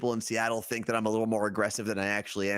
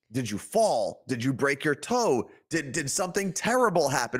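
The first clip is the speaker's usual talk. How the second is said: mock concern. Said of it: "I'll turn around and say".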